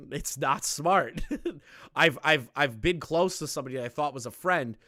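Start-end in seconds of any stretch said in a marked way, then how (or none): 0.1-1.2 slow. Real, not acted. Repeated verdict slowed.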